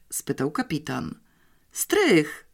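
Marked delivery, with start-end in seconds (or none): 1.7-2.4 high-pitched excited cry; sudden bright exclamation of discovery; exclaiming. A narrator's reading. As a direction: blurt out the guess, pitched up. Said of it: "wykrzyknęła Janeczka".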